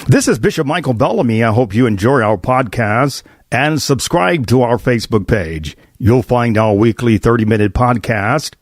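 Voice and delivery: upbeat host announcement; podcast promo read. Acted. Host promoting the podcast page, bright announcer read. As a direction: read it like a sponsor spot.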